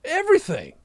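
high, earnest Texan; Texas accent. Acted. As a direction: confess devotion as a rich Texan. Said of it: "moved to Texas and got accents".

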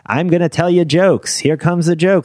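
brassy Catskills comic patter; old borscht belt comic. Retold or imitated. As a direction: work the resort crowd like the forties. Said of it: "I am a classic nineteen forties Catskill comedian".

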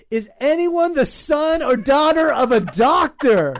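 loud announcement. Pretend. Mock emergency call on a plane.

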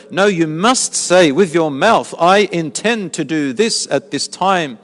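slow, emphatic mock insistence; imitating zealous insistence. Zealous believer telling others the rule, slow imitated insistence. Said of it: "zealous on this topic".

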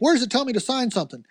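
high-pitched Southern American sceptic; Southern American accent. Acted. Sceptic questioning having to sign up, in a Southern American accent. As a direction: play a doubting churchgoer with a Southern American accent. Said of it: "I just gave you a Southern American accent".

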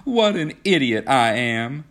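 high, loud self-reproach; startled exclamation. A narrator's reading. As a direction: cry out at your own blunder. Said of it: "exclaimed Kismine with a startled look".

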